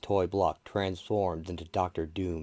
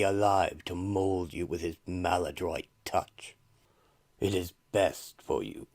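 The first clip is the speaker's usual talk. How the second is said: eldritch voice. Acted. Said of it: "begins to speak to her in an eldritch voice".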